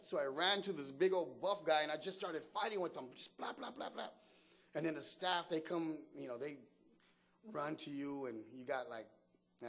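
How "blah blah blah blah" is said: imitated punches. Imitating punches while retelling fight.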